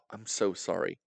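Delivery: softly murmured mock apology; retold apology. Boy apologising to his date on the wheel, soft apology.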